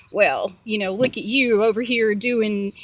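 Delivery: mild snide put-down. Retold or imitated. Guy belittling the dreamer's lowly job, mildly snide. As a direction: talk down with a touch of sneer. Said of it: "say something really snide".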